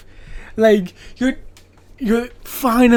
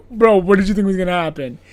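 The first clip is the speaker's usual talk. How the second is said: exasperated bro; faster than usual. Retold or imitated. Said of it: "This is why I'm, like, so, like".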